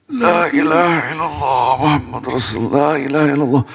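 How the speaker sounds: high, sustained chanting voice; imitated full-voiced dhikr recitation; loud dhikr. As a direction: call out the remembrance of God without stopping. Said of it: "pakai suara itu terus".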